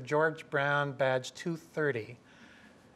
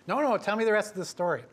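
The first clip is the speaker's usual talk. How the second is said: mocking cop; 7 semitones higher, faster than usual. Cop mocking, wants more.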